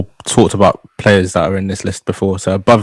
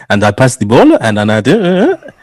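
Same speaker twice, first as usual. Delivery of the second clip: lightly imitated French-tinged English; mock French accent; 3 semitones higher than usual. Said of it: "French, bro".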